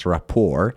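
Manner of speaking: "rapport" as "ra-POR", weight on the P; stress on second syllable. Shown as a demonstration. Teacher showing students where stress falls, "rapport" stressed from the P. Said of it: "استرس هم یا فشار هم روی پی هست".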